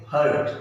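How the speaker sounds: हर्ट with the R barely sounded; very short R. Shown as a demonstration. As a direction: keep the R inside हर्ट tiny. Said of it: "बहुत ही छोटा होगा". (हर्ट में र बहुत छोटा, अंदर ही अंदर)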